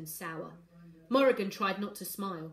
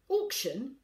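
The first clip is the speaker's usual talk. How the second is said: irritated echo, pitched higher; snapped question; 6 semitones higher, 4 dB louder than usual. A narrator's reading. Father answers daughter's question, snapping. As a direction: throw the word back sharply. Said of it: "Corvus snapped".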